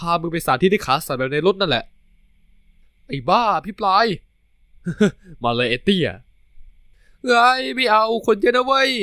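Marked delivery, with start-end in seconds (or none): 3.1-4.1 higher, louder scolding cry; loud high playful scold; scolding yell. Acted. Talay scolds his boyfriend. 4.8-5.4 a quick laugh; short laugh, slightly higher. Acted. Laughs after the banter. 6.7-8.9 high, loud, slow squawking protest; loud high drawn-out protest while in a headlock; protesting loudly. Acted. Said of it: "ทะเลโวยวาย".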